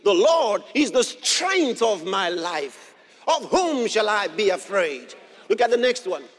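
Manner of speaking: loud preached declaration; bold proclamation. Real, not acted. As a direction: proclaim it boldly to the congregation. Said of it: "then I'll boldly proclaim".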